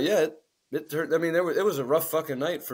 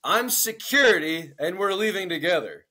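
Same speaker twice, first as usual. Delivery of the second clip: firm bouncer; 3 semitones higher than usual. Retold or imitated. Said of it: "I was like".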